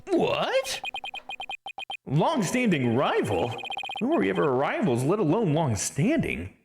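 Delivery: high, loud disbelieving shout; shocked outburst. Acted. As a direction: blurt it out in total disbelief. Defense attorney shocked outburst.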